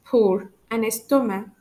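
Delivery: "peau" and "estomac" with no k at the end; silent C. Shown as a demonstration. French teacher demonstrating two words, silent c in "estomac". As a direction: leave the c off "estomac", ending on "ma". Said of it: "I don't pronounce the letter C".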